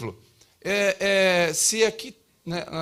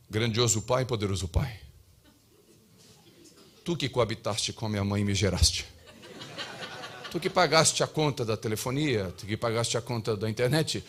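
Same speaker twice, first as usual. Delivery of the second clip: put-on lower, pompous archaic prayer voice for a child; mock formal prayer; 5 semitones lower than usual. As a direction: solemnly address dad like a deity for a Kinder egg. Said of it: "imagina a minha filha de sete anos chegando pra mim".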